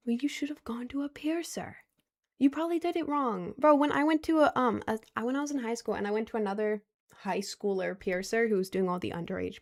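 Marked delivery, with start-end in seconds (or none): 0.1-3.5 voiceless, higher whisper aside. Real, not acted. Whispering a jab at the commenter who pierced themself.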